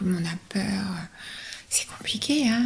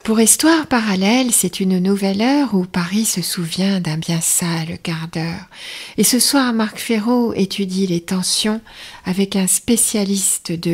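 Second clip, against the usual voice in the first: rhymed TV listings read with a light lilt; playful vintage continuity announcer. Acted. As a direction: present the evening's programs in verse. Rereads the rhymed program announcement.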